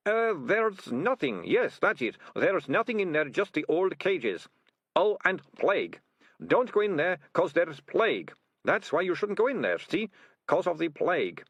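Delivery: high, babbling cover story; nervously lying ratcatcher. Acted. Ratcatcher keeping captors out of the cellar, nervously evasive. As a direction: improvise excuses in a high, nervous voice.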